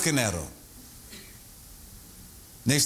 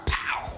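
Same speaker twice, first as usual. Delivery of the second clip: imitated gunshot; 4 dB quieter than usual. Imitates a forty firing.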